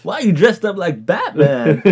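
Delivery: comic celebrity voice on the edge of laughter; mock-baffled eccentric, played for laughs; Christopher Walken. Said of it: "That's my Walken impression".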